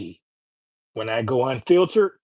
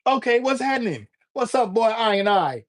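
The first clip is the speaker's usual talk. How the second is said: put-on Jamaican accent; 7 semitones higher than usual. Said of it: "the way Jamaican people speak".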